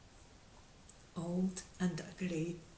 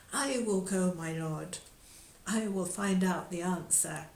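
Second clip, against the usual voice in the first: put-on louder, eager young knight; mildly heroic pledge; bold volunteering; 5 dB louder than usual. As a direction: step forward and declare it.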